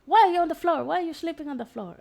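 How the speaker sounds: high, loud, indignant mock shout; loud playful mock anger; mock angry yell. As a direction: retell his angry outburst, hammed up. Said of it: "he gets mad and he's like".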